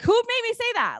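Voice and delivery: very high, incredulous question; high-pitched mock disbelief; retold shock. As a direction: imitate someone startled by their own mouth. Friend shocked at her own words.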